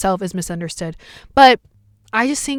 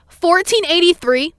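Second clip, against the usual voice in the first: high, drawn-out mock yell; high, loud retold scream; imitated scream; 7 semitones higher, 5 dB louder, slower than usual. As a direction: call out the number like an irate cashier. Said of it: "she screams and goes".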